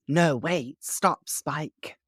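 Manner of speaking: imitated plea to stop; Drusilla. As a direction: plead in a high put-on voice. Voicing Drusilla halting Spike.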